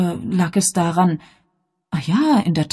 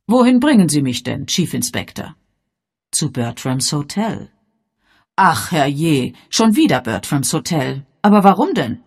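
put-on gently inquisitive old lady; elderly lady; 6 dB louder than usual. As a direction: Miss Marple, mildly puzzled, slightly raised. Miss Marple voiced in story.

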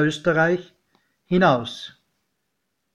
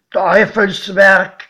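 slow, louder, drawn-out condemnation; godfather's verdict; 3 semitones higher, 7 dB louder, slower than usual. A narrator's reading. Godfather judging the tunnel, slow and grim. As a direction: pronounce it like a curse. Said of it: "Mein Pate meinte nur".

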